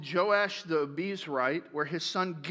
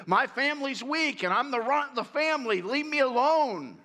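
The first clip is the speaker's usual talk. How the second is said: mild whiny complaint, pitched up; a sulky kid begging to be left alone; understated whine; whining; 5 semitones higher than usual. Acted. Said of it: "basically just more whining".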